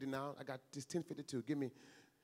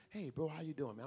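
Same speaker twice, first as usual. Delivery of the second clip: unhurried, heartfelt hello; sincere greeting; 2 semitones lower than usual. Shown as a demonstration. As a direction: greet like you truly mean it. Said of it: "That's not a lie".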